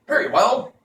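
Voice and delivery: high, hollow-headed wooden man; Pumpkinhead voice. Acted. Jack Pumpkinhead asks Tip where they go, high voice. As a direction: pitch it way up like a carved pumpkin man.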